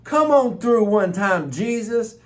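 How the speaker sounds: high, loud joyful exclamation; shouting praise in amazement; retold excited disbelief. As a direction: replay the thrill of the answered prayer. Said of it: "I was like".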